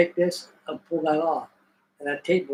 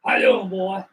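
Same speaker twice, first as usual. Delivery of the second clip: lightly voiced Cajun Southern chef; Cajun Southern accent; 2 semitones higher than usual. Burly chef greeting a job seeker, Cajun Southern accent. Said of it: "Cajun Southern accent they had".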